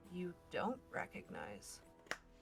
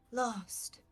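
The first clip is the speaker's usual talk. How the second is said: talking tree; 3 semitones higher than usual. Acted. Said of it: "in a different voice, one that doesn't belong to you".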